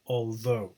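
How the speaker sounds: "although" stressed on its second syllable; full vowel in both halves of "although", weight on the last. Shown as a demonstration. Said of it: "the stress is on the second syllable".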